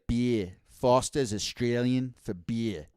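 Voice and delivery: slow, put-on Australian slogan; Australian accent. Shown as a demonstration. Showing what gets him into it, slow Australian accent. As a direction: try a brief Australian accent. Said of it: "can't do an Australian accent".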